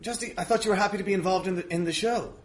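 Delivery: ordinary delivery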